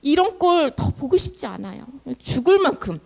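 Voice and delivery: worn-out begging with halting starts; acted despairing plea. Exhausted Moses begging the Lord to end his life, despairing. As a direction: beg God for release, at your limit. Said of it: "싶을 정도로 모세가 지쳤어".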